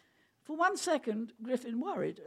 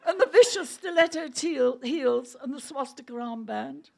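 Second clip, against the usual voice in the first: laughing; 3 semitones higher, 11 dB louder than usual. Real, not acted. Reader still laughing.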